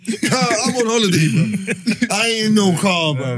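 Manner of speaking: laughing. Real, not acted. Joking about not driving.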